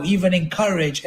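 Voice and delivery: ordinary delivery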